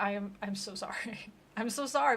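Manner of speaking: a sorry that breaks into a laugh; girl apologizing while giggling; apologizing through laughs. Retold or imitated. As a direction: try to apologize but can't stop laughing. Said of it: "the girl's like".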